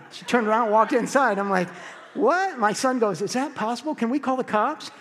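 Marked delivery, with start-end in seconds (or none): 2.1-2.6 very high-pitched, stunned retort; acted-out incredulous squawk; mock disbelief. Reacts to woman refusing to pay. 3.2-4.9 higher-pitched, questioning son voice; lightly voiced son, pitch raised; imitated son. Voices his son's question.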